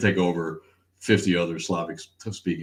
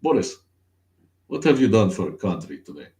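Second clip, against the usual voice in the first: put-on Russian accent; 3 semitones higher, 6 dB louder than usual. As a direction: play a comic Russian addressing Boris. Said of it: "Here we are fucking with Russia".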